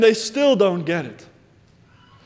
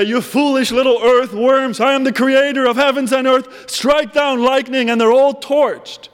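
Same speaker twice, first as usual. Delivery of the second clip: mock divine rant; 5 semitones higher, 3 dB louder than usual. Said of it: "never shout back and say".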